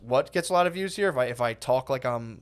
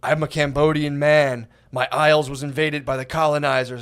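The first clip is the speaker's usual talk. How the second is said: mock solemn father; 5 dB louder than usual. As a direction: declaim like a Lion King elder. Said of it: "the guy sounds like the sky from the Lion King".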